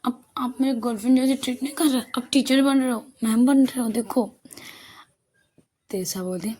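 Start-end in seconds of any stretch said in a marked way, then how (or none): 0.1-4.4 put-on higher-pitched girlfriend grumble; sulky complaint. Aana accuses her girlfriend of acting like a teacher, sulky complaint. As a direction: protest like a neglected girlfriend.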